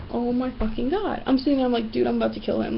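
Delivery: soft, exasperated grumble; fed-up aside. Retold or imitated. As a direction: say it under the voice, at the end of patience. Acted fed-up aside to friend.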